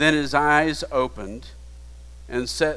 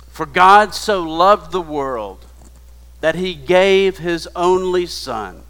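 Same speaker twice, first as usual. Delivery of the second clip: louder, ringing proclamation of the verse; proclaiming scripture; 4 dB louder than usual. Real, not acted. Preacher proclaiming John 3:16 to the congregation, loud and ringing.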